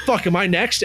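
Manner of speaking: high-pitched mock panic; retold freak-out. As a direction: replay your own alarm as a story. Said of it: "freaking out".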